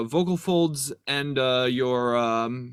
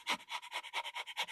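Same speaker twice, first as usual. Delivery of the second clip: small dog panting; 17 dB quieter than usual. Shown as a demonstration. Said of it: "pant like a small dog".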